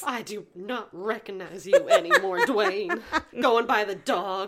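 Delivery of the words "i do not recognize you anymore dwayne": scolding mom. Retold or imitated. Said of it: "that's what his mom sounded like".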